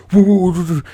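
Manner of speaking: high, whooping "woo" noises; imitated sprinting noise. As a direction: whoop like someone chasing a car. Imitates man sprinting after car.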